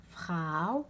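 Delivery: فخاو ending in a held "ow"; au diphthong. Shown as a demonstration. Teacher contrasts two diphthongs, فخاو with clear au. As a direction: say فخاو with a gliding into u. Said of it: "او كيما فخاو".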